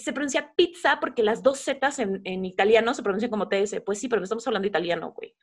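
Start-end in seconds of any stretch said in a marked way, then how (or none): 3.8-5.4 fast rant. Real, not acted. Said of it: "ranting about pizza pronunciation".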